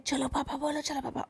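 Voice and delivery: mock soft coaxing to a toddler; softly. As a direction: hush it right down, coaxing a child. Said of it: "धीरे धीरे कहती है".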